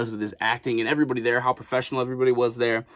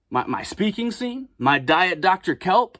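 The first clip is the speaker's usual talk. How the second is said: incredulous; 5 semitones higher, slower than usual. Retold or imitated. Protesting his missing scene.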